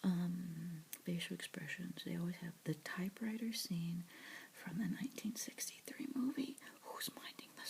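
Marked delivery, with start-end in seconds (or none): none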